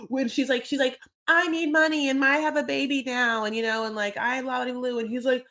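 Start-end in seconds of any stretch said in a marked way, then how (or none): 1.3-5.0 mock Destiny. Destiny mocked asking money.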